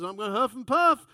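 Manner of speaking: menacing wolf. Retold or imitated. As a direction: huff it out like the wolf. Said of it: "And he says".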